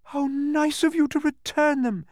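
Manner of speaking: high delighted exclamation; happy cry. A narrator's reading. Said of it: "she cried happily".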